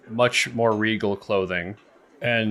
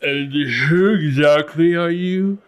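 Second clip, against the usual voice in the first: regal man demanding; 6 semitones higher, 5 dB louder than usual. Acted.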